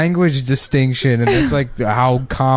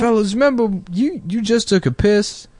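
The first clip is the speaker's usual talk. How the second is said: Steve Harvey impression; 8 semitones higher than usual. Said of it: "He stumbles on that joke too".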